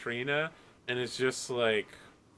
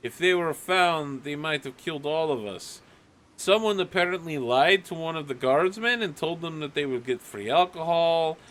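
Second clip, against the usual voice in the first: mildly raised, indignant townsperson; complaining villager; 3 semitones higher than usual. Acted. Villagers confront Nadia about the guards, mild indignation. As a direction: press a grievance for the crowd.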